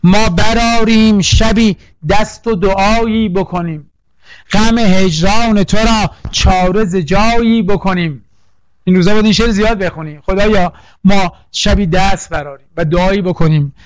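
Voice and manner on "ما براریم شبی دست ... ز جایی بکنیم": slow, measured recital of a classical couplet; slow poetic recitation. Shown as a demonstration. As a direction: savour each word of the verse for the students. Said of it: "این بیتو این روزها خیلی نیاز دارید".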